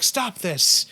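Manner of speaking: a retold sharp command; stern command. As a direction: bark it like a sensei. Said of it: "He's like".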